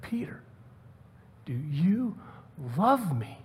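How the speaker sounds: soft, with long pauses between words; intimate, searching question. Acted. Jesus looking into Peter's soul, quiet and searching. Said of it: "he's looking into Peter's soul".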